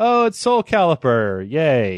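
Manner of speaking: mock unenthusiastic, slow, swooping sarcastic inflection. Showing mixed feelings about a game: sarcastic, unenthusiastic. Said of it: "It's all in the inflection".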